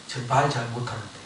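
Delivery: soft, low mock excuse; reluctant excuse. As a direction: lightly imitate a reluctant, self-doubting speaker. Musa beralasan enggan kepada Tuhan.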